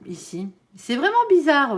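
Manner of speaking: ordinary talk, nothing marked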